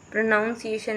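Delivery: प्रोनाउंसिएशन with "noun" for "nun"; own mispronunciation. Real, not acted. Teacher trying to model the word, real mispronunciation. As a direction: slip into pro-noun-si-ation for प्रोनाउंसिएशन. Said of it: "मेरे को भी गलत हो गया".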